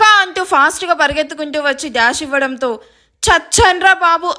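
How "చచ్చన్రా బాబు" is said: higher, drawn-out cry of pain; mild yell of someone knocked over; stretched-out "I'm done for" wail; mock yelp. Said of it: "కెవ్వుమని కేక పెడతాడు".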